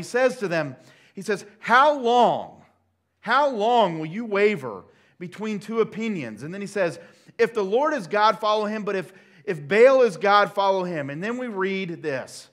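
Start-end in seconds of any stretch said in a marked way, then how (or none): 1.6-6.4 loud, higher, ringing challenge to the crowd; Elijah's challenge. Retold or imitated. Elijah confronts the wavering people, loud challenge. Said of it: "Elijah challenges the people". 7.4-11.1 loud, emphatic ultimatum; higher and louder, pressing the crowd to choose; Elijah's challenge. Retold or imitated. Elijah gives the people a choice, forceful challenge. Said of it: "Elijah challenges the people".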